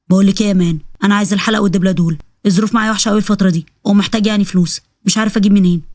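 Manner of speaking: a hint of a pushy man; demanding lover. Lover pressing a married woman for her gold, lightly voiced pushy man.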